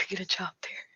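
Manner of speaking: hushed, voiceless aside; whispered aside. Real, not acted. Nervous vlogger whispering about her job. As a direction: drop to a secret whisper.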